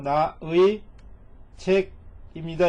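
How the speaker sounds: slow translation. Shown as a demonstration. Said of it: "이런 얘기죠".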